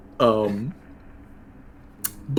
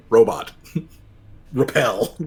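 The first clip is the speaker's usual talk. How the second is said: slow, laughing robot command; slower than usual. Acted. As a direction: announce it like a robot, stiffly. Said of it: "and he's like".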